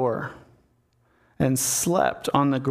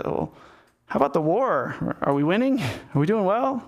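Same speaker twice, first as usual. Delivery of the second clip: awkward small talk; 3 semitones higher than usual. Retold or imitated. David quizzing Uriah about the war, acting awkward. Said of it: "this really awkward small talk".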